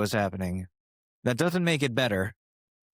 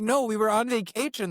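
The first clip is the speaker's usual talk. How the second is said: defensive younger self; 9 semitones higher than usual. Retold or imitated. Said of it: "I'm like".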